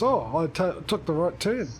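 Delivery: mildly hammed-up surprise, pitch lifted; mock surprise at getting it right; surprised voice. Shown as a demonstration. Driver joking about finally taking the right turn, mock surprised. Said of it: "what I should do with a surprise voice".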